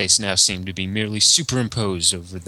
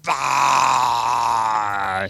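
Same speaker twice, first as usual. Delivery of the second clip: outraged bah; 4 semitones higher, 4 dB louder than usual. Acted. Face contorted with outrage.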